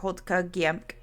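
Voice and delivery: Hotka Giemk said carefully as a native word. Shown as a demonstration. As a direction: give Hotka Giemk its own-language sounds. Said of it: "which is".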